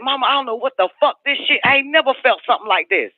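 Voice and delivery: high, fast, breathless amazement; amazed daughter. Retold or imitated. Daughter marvels at the Rolls Royce, high and fast. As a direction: gush like a stunned teenager.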